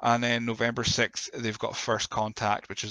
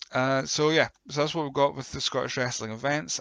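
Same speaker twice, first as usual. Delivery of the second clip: hoarse, croaky speaking voice; 3 semitones higher than usual. Real, not acted. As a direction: talk through a croaky throat. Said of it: "I've got a bit of a croaky voice".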